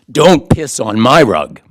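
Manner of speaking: loud, slow retold roar; booming, drawn-out imitation of an angry rebuke; thundering. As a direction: thunder it out word by word. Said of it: "thundered in his face".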